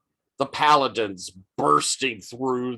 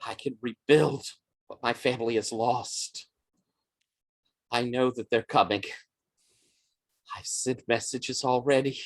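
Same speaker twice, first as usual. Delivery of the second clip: muttering. Acted. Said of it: "She's muttering to herself".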